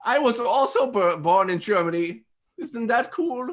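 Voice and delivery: high put-on German voice; German accent. Host introducing next German designer, mock German accent. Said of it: "I'm just talking in a German accent".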